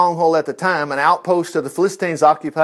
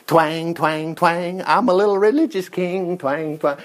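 mock harp strumming. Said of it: "He wasn't going".

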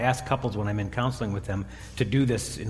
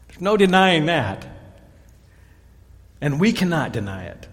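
stern temple leaders; 3 semitones higher, 5 dB louder, slower than usual. Retold or imitated. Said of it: "They came back and said this".

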